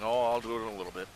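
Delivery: quick, breezy brush-off; procrastinating excuse. Retold or imitated. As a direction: toss off the excuse lightly and fast. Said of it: "And I, and I keep going".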